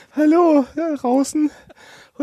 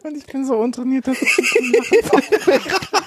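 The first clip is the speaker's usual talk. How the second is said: laughing. Real, not acted. Laughing fit during reading.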